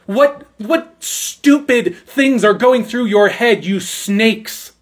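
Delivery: incredulous disdain, drawing out "what stupid things"; disdainful, emphatic. Retold or imitated. John the Baptist rebuking his questioners, disdainful and emphatic. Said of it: "he holds these men in disdain".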